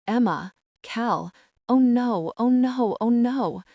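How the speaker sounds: oh no breaking out in panic; a girl seeing police at a neighbour's house, panicked; panicked dread. A narrator's reading.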